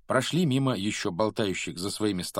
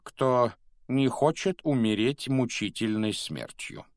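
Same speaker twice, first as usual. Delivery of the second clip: higher, deliberate headmaster's address; Dumbledore announcing; 4 semitones higher than usual. Acted. Headmaster warning the whole school, higher and deliberate.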